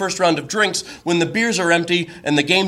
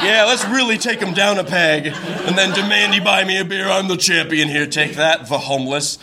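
mock triumph; 2 semitones higher than usual.

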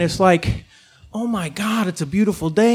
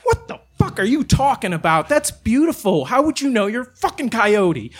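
a raised, offended protest; indignant defense; 4 semitones higher than usual. Retold or imitated. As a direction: defend your skyline, affronted. Arguing back at the coyote.

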